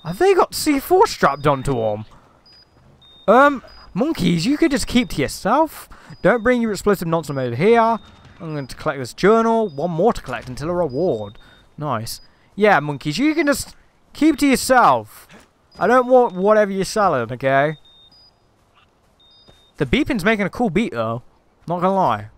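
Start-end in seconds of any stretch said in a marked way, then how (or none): 3.3-8.0 mock polite warning. Talking down to game monkeys. 12.5-17.8 mock stern shooing. Shooing off game monkeys.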